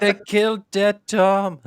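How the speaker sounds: high, slow laughing line; laughing through words. Real, not acted. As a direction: crack up while saying it. Laughing at pirate name.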